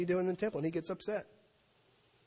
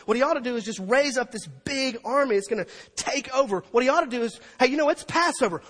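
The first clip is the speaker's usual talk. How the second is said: high, loud, driving preacher; full-force preaching; 6 semitones higher, 7 dB louder than usual. Acted. Preacher tells congregation what Jesus ought to do, full-force preaching. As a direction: build it like a rallying battle cry.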